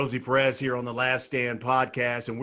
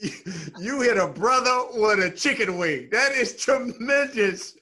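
laughing; 8 semitones higher than usual. Real, not acted. Laughing at the story.

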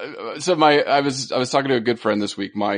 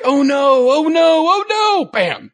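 rising, louder, ever higher "oh no" cries; panicking bird; 6 dB louder, slower than usual. Retold or imitated. Voicing a male bird landing on its testes in a rising panic. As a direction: squawk in mounting panic until the crash. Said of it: "they're like".

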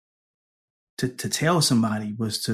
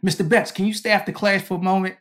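professor voice; 7 semitones higher, 3 dB louder than usual. Retold or imitated. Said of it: "And then he say".

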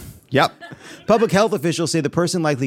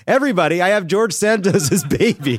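higher, hammed-up mock announcement; joking announcement; 5 semitones higher than usual. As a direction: announce it to the room as a joke. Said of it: "and joked".

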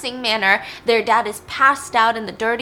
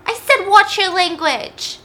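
high, loud, drawn-out telling-off; slow, stern shout at a misbehaving child; scolding shout; 12 semitones higher, 9 dB louder, slower than usual. Acted. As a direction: yell the full name like an outraged parent. Parent scolding child in story.

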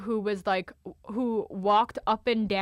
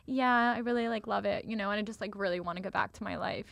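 fading ever softer, sighing sincerity; fading wistful; 6 dB quieter than usual. Retold or imitated. Pleading to the doctor to go home, fading softer. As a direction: trail off longingly.

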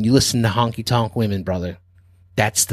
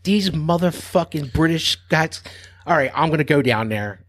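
higher, exasperated mock grumble; a fed-up singer giving in; retold annoyance; grumbling singer; 6 semitones higher than usual. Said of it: "and she's like".

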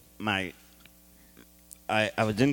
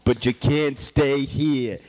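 Donald Trump voice. Acted. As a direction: boss giving orders, Trump style. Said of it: "this is a character I can get behind".

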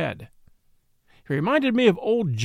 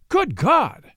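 high-pitched exclamation of dismay; shocked cry; 9 semitones higher, 3 dB louder than usual. A narrator's reading. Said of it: "I cried".

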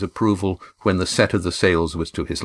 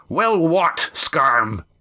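demanding; 7 semitones higher, much slower than usual. A narrator's reading. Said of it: "he demanded".

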